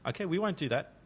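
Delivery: half-hearted impression of an agreeable dictator; Hitler voice. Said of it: "So in my best Hitler voice".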